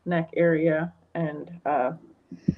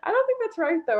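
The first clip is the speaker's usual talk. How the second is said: imitating a doubtful friend; faster than usual. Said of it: "she'll be like".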